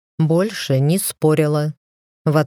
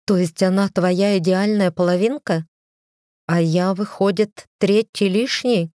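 wounded sarcasm; 3 semitones higher than usual. Acted. Wife confronts husband over mistress.

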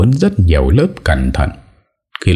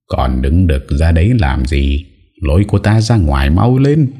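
mild roar. Acted. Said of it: "Tiếng Tử Văn gầm lên".

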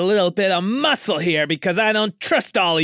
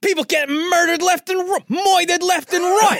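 put-on brash New York accent, louder; New Yorker accent; 11 semitones higher, 4 dB louder than usual. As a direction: tough New York guy complaining, New York accent. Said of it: "trying so hard to do the New Yorker accent".

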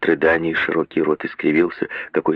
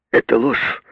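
cry out; 5 semitones higher than usual. A narrator's reading. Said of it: "крикнула Агнес".

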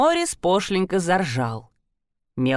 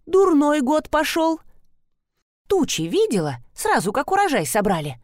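put-on old neighbour voice; 7 semitones higher than usual. Neighbour Garita voiced complaining.

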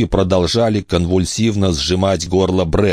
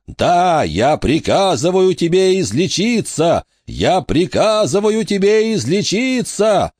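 high, impassioned command to heal; frantic high-pitched healer's cry; 12 semitones higher than usual. A narrator's reading. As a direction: command with all your will, pitch climbing. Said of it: "запрокинул голову и закричал".

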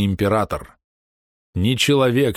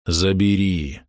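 insistent pleading; slower than usual. A narrator's reading. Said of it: "с нажимом повторил мужчина".

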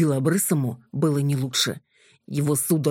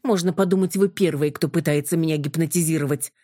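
snapping. Acted. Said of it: "огрызнулась я".

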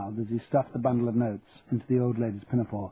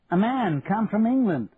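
put-on slow, higher old wife repeating herself; 9 semitones higher, 3 dB louder than usual. A narrator's reading. Wife repeats the news to her sleepy husband, slower and emphatic. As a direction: spell "England" out again slowly for a deaf husband. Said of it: "repeated his wife".

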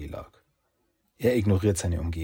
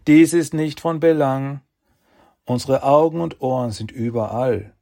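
sharp, louder cold authority; stern raised voice; 6 semitones higher, 8 dB louder than usual. Acted. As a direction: cut him off with stern command. Sages cut in harshly.

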